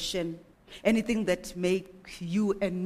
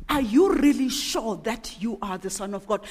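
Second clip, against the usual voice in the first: a lightly voiced, doubting tempter; tempter's voice; 5 dB louder than usual. Tempter questioning Jesus after his baptism: mildly doubting. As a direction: plant doubt with a mild sneer. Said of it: "that is what the voice of the tempter sounds like".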